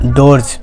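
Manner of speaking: डोर्स ending in a voiced Z/J; डोर्स with the plural S said as Z; final Z sound. Shown as a demonstration. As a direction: end डोर्स on a buzz, not S. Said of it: "तो क्या पढ़ेंगे".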